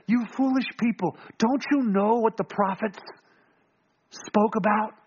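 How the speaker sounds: gentle, lighter chiding; not mad. Acted. Jesus corrects the travelers, gently chiding without anger. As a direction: chide them kindly, without anger. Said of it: "lest we think Jesus is mad at them".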